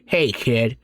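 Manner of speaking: lightly voiced old man calling out. A narrator's reading. Grandfather calls to the granddaughter-in-law, lightly voiced old man. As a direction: call out like a leering old man. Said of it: "the old man going".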